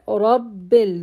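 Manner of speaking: Rabbil with a held double b; doubled ba. Shown as a demonstration. Teacher modelling doubled ba. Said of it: "I have double ba".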